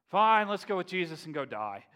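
loud, fed-up mock resignation; exasperated giving-in. Disciples agreeing to go die with Jesus, loud exasperation. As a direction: throw it out loudly like a grudging follower.

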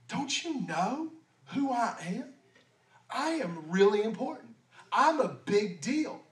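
a hint of a proud big shot; arrogant. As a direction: imitate someone full of their own importance. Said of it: "this spirit of pride".

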